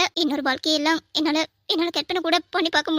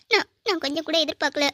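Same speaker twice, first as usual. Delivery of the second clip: tearful, words catching in the throat; a widow crying to a friend at her husband's grave. Acted. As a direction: voice breaking into a sob. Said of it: "Radha, அழாத".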